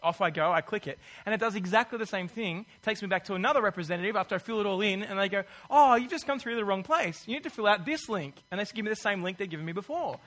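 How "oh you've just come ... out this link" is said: cheerful sales rep. Retold or imitated. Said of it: "cheerful and nice".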